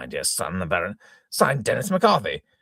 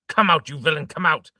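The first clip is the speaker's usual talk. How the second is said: 1 angry shout; 4 semitones higher, 4 dB louder than usual. Acted. Furious father calling into cupboard.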